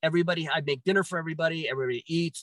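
usual speaking voice

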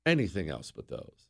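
a hint of a henpecked husband; timid husband plea. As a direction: mumble it like a scared husband. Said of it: "they don't have the guts to just say".

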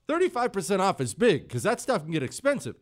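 usual speaking voice

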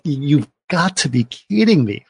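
slow, mock-incredulous scorn; scornful disbelief. Wife rejecting husband's plea, slow mildly scornful disbelief. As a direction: imitate contemptuous disbelief, drawing the words out. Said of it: "hate and laughter in her".

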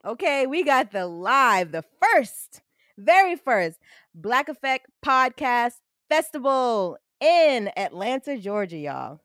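slow, punchy ad announcement; promo read. Acted. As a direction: sell the event to listeners, slowly. Announces the festival ad.

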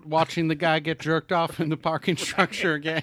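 high, loud mock vlogger update; Da Vinci as vlogger. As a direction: play a vlogger reporting from the scene. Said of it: "It's a Da Vinci here again".

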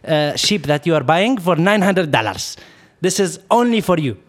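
put-on haggling salesman with Arab accent. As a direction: imitate an Arab car seller reassuring a buyer. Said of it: "I'm gonna try to talk to his accent".

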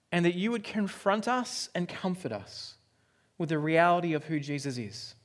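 hushed, reverent opening prayer. Acted. Pastor praying before the sermon, hushed and reverent.

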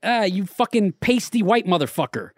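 high-pitched mock heckler; imitating a stranger hailing someone with insults; haggard dude. Haggard dude accosts the podcaster on the boardwalk, mock hail. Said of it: "this haggard-looking dude goes".

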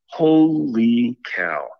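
slow astonished exclamation; stunned disbelief. Retold or imitated. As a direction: let it stretch in amazement. Stunned at the matching sighting.

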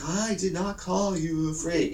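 put-on a light Indian accent, protesting. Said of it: "really heavy Indian accent".

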